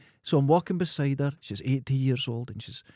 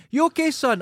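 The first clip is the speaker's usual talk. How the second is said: high, loud call of a concerned stranger; calling passer-by; 13 semitones higher, 5 dB louder than usual. Retold or imitated. Passer-by calls to the sliding cyclist, high and loud. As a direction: call down the hill to a fallen cyclist.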